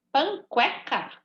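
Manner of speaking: Panqueca said as pan-kwe-ca, the U sounded; deliberately wrong. Shown as a demonstration. Teacher showing pupils the wrong way with the U sounded. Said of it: "Se fosse pra eu ouvir o som do U".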